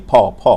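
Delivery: "ফ" as a puffed P, low; aspirated P sound. Shown as a demonstration. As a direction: say "ফ" with a burst of air. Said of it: "আমরা কিন্তু ফ বলেছি". (মহাপ্রাণ ফ ধ্বনি)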